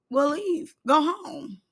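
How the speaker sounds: usual speaking voice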